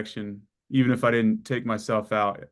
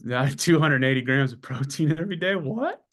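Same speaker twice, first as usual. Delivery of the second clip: laughing; 2 semitones higher than usual. Real, not acted. Laughing at own protein intake.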